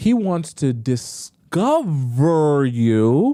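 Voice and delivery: very slow, drawn-out, deliberate emphatic phrasing. Advising listeners, slowing down so they really hear it, speaking slowly. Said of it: "I'm saying it slowly".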